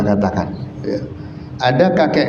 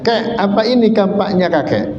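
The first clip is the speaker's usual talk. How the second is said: higher, kindly questioning jin; jin asking; 7 semitones higher than usual. Acted. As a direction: play the jin offering the gold axe. Jin questions the old man.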